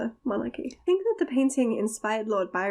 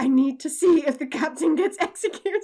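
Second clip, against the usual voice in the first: eager excitement; 6 semitones higher, 4 dB louder than usual. Retold or imitated. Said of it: "but I was like".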